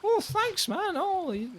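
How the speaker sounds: very high excited voice; relieved boatman. Acted. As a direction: gush high and breathless with relief. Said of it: "I'm like".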